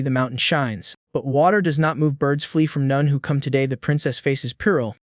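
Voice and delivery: slightly subdued prophetic recitation; reciting prophecy. A narrator's reading. Zhang Yu warns Yili of the princess's peril, reciting prophecy. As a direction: intone it gently, like a foretelling. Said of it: "speaks like reciting prophecy".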